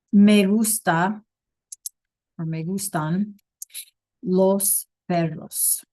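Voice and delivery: slow, careful Spanish model sentence. Shown as a demonstration. Teacher modelling a sentence slowly for students. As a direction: spell it out slowly for the class. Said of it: "I can say".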